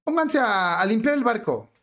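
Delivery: lightly acted captain, musing then instructing; mock ship captain. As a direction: give orders as a captain ignoring danger. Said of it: "al capitán".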